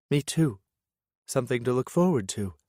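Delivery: a hint of a cheerful woman; lightly voiced woman. Lillian's text reply.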